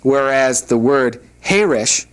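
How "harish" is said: "Harish" with the first syllable stressed, drawn out slowly. Shown as a demonstration. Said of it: "with the accent on the first syllable means quiet".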